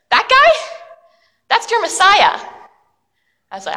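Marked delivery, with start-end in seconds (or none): 0.1-2.4 emphatic reveal. Acted. Parent answers excitedly.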